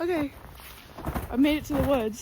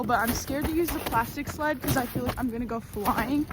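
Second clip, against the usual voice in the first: rough, worn hoarse voice. Real, not acted. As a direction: talk through a tired hoarse throat. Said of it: "sorry about the state of my voice".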